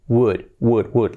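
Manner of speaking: "would" with the L left out; correct would. Shown as a demonstration. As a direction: drill "would", silent L. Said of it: "La L fuera". ("would" repetido, sin la L)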